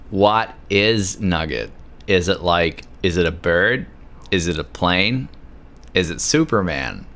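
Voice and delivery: tipsy, slurring the questions. Real, not acted. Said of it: "That's your indication that I'm drunk".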